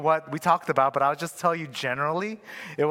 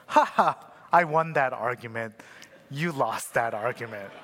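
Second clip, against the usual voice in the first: mock gloating chuckle; 5 semitones lower than usual. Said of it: "he chuckles to himself".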